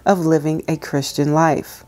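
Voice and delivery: calm, measured reading aloud; devotional reading. Acted. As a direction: read it gently like a devotional.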